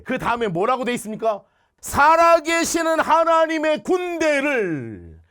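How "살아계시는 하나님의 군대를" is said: very slow, loud and high, each word weighed; proclaimed slowly. Real, not acted. Preacher proclaiming God's army to the congregation, slow and loud. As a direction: lift it up like a banner. Climactic scripture phrase proclaimed.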